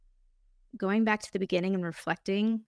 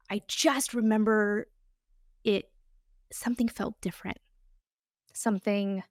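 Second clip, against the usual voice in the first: whispered, choked-up confession; barely able to get the words out; real emotion catching in the throat; getting emotional. Real, not acted. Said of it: "see, I'm getting emotional".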